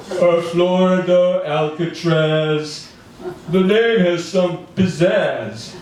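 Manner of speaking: lightly voiced Trump, slow and drawn out; a hint of Trump's voice; Trump impression. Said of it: "Okay, that's my Trump".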